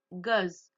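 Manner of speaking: "goes" with the final S clearly voiced as a z; final S pronounced. Shown as a demonstration. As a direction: say "goes" with its ending sounded. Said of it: "attention à la prononciation". (prononcer « goes » avec le S final bien sonore)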